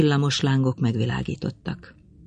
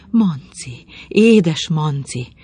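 slow, drawn-out tender coo; 4 dB louder, much slower than usual. Acted. Madame at her young lover's feet, slow tender cooing. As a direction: linger lovingly on every sound. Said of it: "búgta a madám".

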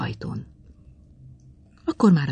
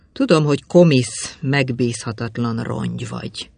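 a mild hint of disgust, spat out; contemptuous lash; 2 semitones lower than usual. The young man insulting Madame in front of the maid, mildly contemptuous. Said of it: "végtelen utálattal, megvetéssel a madám arcába vágta".

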